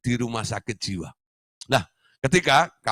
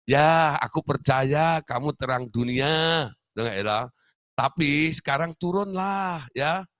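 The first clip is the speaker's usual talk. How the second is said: coaxing doctor; 5 semitones higher, slower than usual. Retold or imitated. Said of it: "dia mungkin nasihati".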